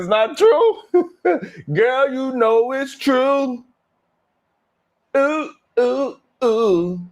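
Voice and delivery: high, drawn-out sassy put-on voice; mock gossip voice. Vlogger mocks a gossip, sassy high voice. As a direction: play a sassy gossip insisting it's true.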